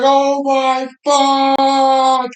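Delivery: slow, very high drawn-out squeal; mock horrified wail. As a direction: wail it like an appalled girlfriend, hammed up. Girlfriend horrified at the puking.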